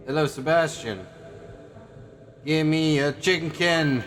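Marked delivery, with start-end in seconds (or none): 2.4-4.0 put-on slow, babyish "chimkin"; silly baby voice. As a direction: beg like a cute toddler.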